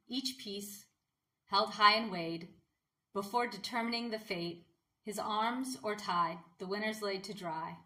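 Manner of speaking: measured verse reading with pauses between phrases; poem recital. Real, not acted. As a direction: recite it line by line, letting each phrase settle. Recites own poem after introducing it.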